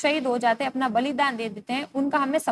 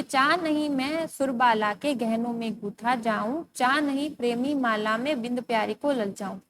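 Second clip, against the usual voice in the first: poem recitation. Acted. Recites the stanza again.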